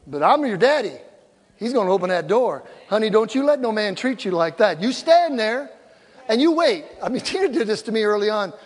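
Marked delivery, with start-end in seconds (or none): none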